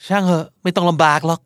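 a little snide, brushing off the offer; sarcastic. Shown as a demonstration. To someone offering help he doesn't want, mildly sarcastic. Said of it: "ประชดประชด แดกๆ นิดนึงนะครับ".

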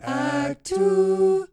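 high, loud mock announcer voice; dramatic announcer. Friends chatting, mock announcer voice. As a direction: boom it like a trailer voice.

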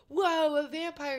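mock amazement like a crowd of kids; slow, wide-eyed retold awe; imitating awed kids.

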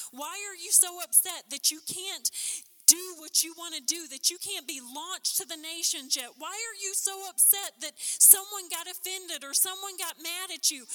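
a preacher building to a shout; rising preaching rebuke. Acted. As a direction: preach it with mounting force.

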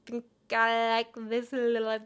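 loud cry, then mimicked fart talk; talking fart imitation. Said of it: "That is what a fart would say".

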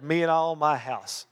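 firm repeated declaration; declaring. Shown as a demonstration. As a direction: proclaim it like a creed. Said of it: "Declare it".

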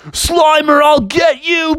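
high, forceful threat; Venkman. Acted. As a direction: call out as if attacking. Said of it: "Venkman was like".

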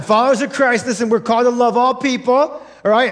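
brisk recap of the same line; quick restatement. Shown as a demonstration. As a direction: rattle it off quickly as a reminder. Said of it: "I'll say it one more time".

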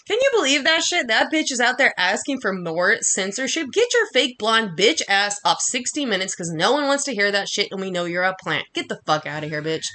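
angry side rant at a critic; worked-up rant. Real, not acted. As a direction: spit it out, really fired up. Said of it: "Sorry, a little worked up".

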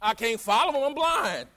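retold exasperated complaint, rising on the last words; acted protest. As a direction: pitch climbing to an exclamation. Acting out the stranded beggar's protest.

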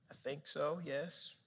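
very soft, low reply; humbled admission. Retold or imitated. Pastor answering the Holy Spirit, humbled and hushed. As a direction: concede it quietly.

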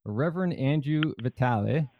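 put-on light Italian accent on the name. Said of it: "I say that in an Italian accent".

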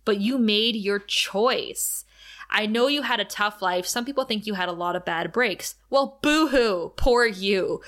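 understated tough-girl takedown, acted in a retelling; mild badass scorn. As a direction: coolly tear them down, stretching key words. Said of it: "quirk is gone and she's just being a badass".

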